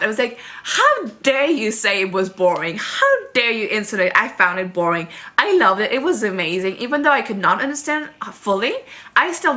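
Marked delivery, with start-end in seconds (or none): 0.6-6.8 retold snapping. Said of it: "I snapped".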